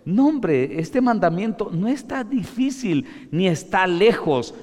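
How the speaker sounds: high, loud preaching as God; God's voice preached. Acted. Preacher voicing God to the people, loud and emphatic. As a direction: boom it as God's own reply.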